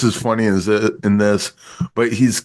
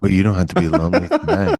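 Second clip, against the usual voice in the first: imitated late-night hotline come-on; quick phone-sex ad patter, lightly mimicked; 3 semitones lower, faster than usual. Host mimics an ad answering lonely callers, sultry ad voice. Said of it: "remember they had those late night sex ads".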